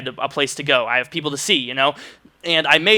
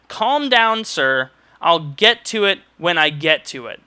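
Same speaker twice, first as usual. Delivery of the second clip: mock her dismissive tone again, with more bite; imitating the curt clerk with emphasis; curt, repeated; slower than usual. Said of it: "I wanna repeat that".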